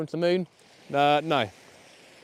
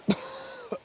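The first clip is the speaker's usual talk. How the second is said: dry cough; 5 dB quieter than usual. Real, not acted. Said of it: "swallowed a fly".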